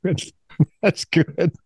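real chuckle running into the words; amused laughing. Real, not acted. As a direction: laugh at the bleakness as you speak. Laughs at co-guest's hopeless answer.

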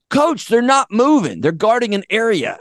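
high, stretched-out pleading explanation; urgent high-pitched player voice; exasperated player. Retold or imitated. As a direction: imitate a kid spelling it out for coach. Player explains zone to clueless coach.

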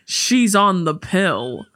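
drawn-out punchline; sketch catchphrase. Retold or imitated. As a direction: stretch the last phrase slowly. Imitating comedy sketch catchphrase.

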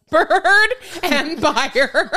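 slow, laughing quote. Real, not acted. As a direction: break up laughing mid-phrase. Quoting husband's phrase, cracking up.

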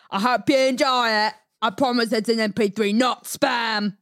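put-on reading a fan message in an Australian accent; friendly Aussie reading a letter. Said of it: "read his message in Australian accent".

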